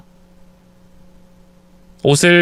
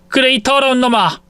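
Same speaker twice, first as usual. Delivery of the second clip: angry mother-in-law; 9 semitones higher than usual. Acted. Mother-in-law slapping lover.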